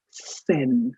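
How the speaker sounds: "Seine" said like "Sen"; French pronunciation. Shown as a demonstration. Teacher correcting learners on the river's name, French pronunciation. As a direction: say Seine low, rhyming with Amartya Sen. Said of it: "please don't pronounce it as".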